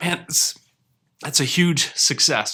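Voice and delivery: choked-up voice catching in the throat. A channel creator reviewing the year with viewers, choked up. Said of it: "I'm not getting choked up".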